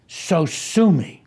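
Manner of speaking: put-on loud, drawn-out retort in a light German accent. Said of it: "he said in his German accent".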